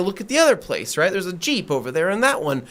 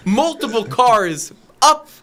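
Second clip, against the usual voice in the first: retold fed-up insistence; exasperated; 4 semitones higher than usual. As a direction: spell it out to someone who isn't getting it. Exasperated retort to confused attendant.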